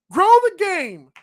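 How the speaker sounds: sarcastic slogan. Shown as a demonstration. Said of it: "Stop saying it and do something about it".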